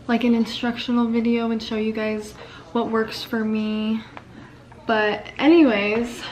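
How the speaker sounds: speaking with a numb face; numb mouth from dentist. Real, not acted. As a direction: talk like your mouth is numb. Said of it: "I'm talking really weird because I just had two fillings done at the dentist".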